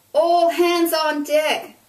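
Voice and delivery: loud, high, slow ship's command; loud call. A narrator's reading. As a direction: call the order over a gale. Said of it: "Emily called".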